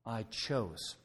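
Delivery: "I" leaned on, "chose" falling; stress on I. Shown as a demonstration. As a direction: hit "I" so the choice is owned. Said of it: "Notice the words, okay?".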